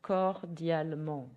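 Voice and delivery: slow, careful French; slow model word. Shown as a demonstration. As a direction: say cordialement slowly. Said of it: "you can say in French".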